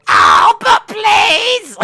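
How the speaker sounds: loud, high hammed-up plea; silly imagined groom voice. Groom begging his bride, high mock wail. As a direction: beg in a squawking put-on shout. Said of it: "his voice is like".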